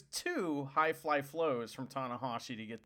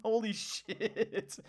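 amazed; 6 semitones higher, much slower than usual. Real, not acted. Amazed at rare wrestling move.

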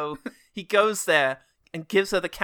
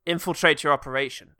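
hopeless spy; 3 semitones lower than usual. Retold or imitated. Keanu introduces himself as Sergey, a hopeless spy.

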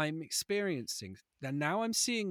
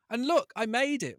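mock shout; 8 semitones higher, 6 dB louder than usual. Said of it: "likes to shout".

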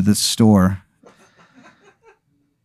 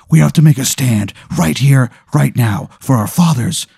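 starts plain, climbs much higher into a rallying yell; building rally cry; 5 semitones higher than usual. Acted. Spirit rallies Aaron to fight for every family member, building to a yell. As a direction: rouse him from calm to a pitched battle cry. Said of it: "He's, like, screaming at you".

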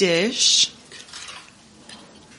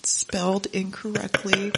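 soft teasing whisper; 6 dB quieter than usual. Real, not acted. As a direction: whisper it with a smirk.

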